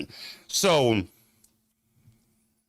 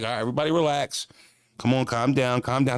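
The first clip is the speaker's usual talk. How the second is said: daycare cops; 2 semitones lower, faster than usual. Retold or imitated. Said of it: "like they're fucking daycare workers".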